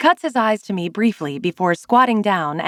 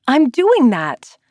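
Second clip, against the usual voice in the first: louder, slow insistence; emphatic; 6 semitones higher, 5 dB louder, slower than usual. A narrator's reading. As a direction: stress each word stubbornly. Playful loud protest.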